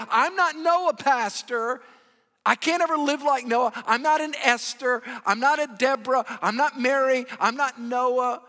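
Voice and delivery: self-doubting listener. Pretend.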